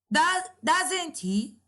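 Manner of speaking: "Does, doesn't he?" pitched high as a rising tag; rising intonation. Shown as a demonstration. Teacher showing students a rising question tag, rising intonation. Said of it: "So it is rising intonation".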